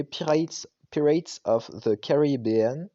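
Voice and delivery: slow, careful English accent on the ride name; light English accent, slowed down. Shown as a demonstration. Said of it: "mon accent est incroyable".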